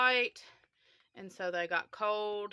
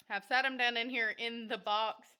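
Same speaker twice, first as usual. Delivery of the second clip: breathless from running; winded, catching breath; 3 semitones higher than usual. Real, not acted. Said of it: "Sorry, I'm out of breath".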